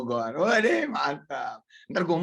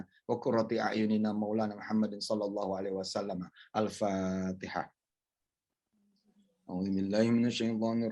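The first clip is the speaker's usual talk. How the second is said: prayer recitation. Acted. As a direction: lead the congregation in prayer. Leads Fatihah prayer.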